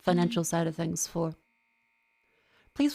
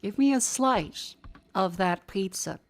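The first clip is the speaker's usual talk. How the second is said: slow drawn-out pizza demand; slower than usual. Shown as a demonstration. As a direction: slowly draw out each word with hunger. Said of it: "the cadence and the tone".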